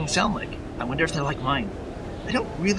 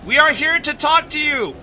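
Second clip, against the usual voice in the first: loud slow shout straight into the ear; yelling; 10 semitones higher, 10 dB louder than usual. Acted. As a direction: yell it right into his ear. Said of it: "Are you trying to make me go deaf?".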